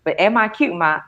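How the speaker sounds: tender mom talk. Pretend. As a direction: coo it slowly to a child. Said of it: "I'm like, "Baby".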